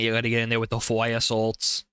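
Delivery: thick Boston accent on fire salts. Shown as a demonstration. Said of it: "You gotta say it with a Boston accent".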